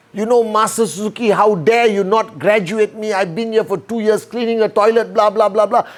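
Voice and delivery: fast, heated complaint to the master; hammed-up angry ranting. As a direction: rattle it off like an indignant student. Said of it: "Ranting, ranting with anger".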